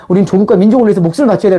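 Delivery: breezy, rattle off 목숨을 바쳐야 돼 like a slogan; quick lighthearted mock pledge; playing along. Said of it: "해주고 얘기할 때도 나는".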